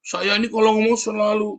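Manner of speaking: high-pitched self-proud imitation; imitating someone pleased with himself; mock boastful. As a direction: brag about your own bluntness, pitched well up. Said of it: "Dia bangga sekali".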